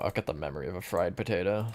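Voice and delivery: extra emphasis on "fried"; stress on fried. Real, not acted. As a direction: lean on the word "fried". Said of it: "Extra emphasis on the fried part".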